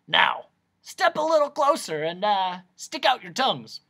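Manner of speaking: high, loud, brisk doctor's order; eccentric noise doctor. Acted. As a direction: play the excitable doctor examining a patient.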